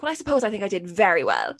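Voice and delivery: confident, upbeat retake of an answer. Retold or imitated. Child redoing answer for the cameras, confidently positive. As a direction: sell the answer with self-assurance. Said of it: "more positive there in, like, in when".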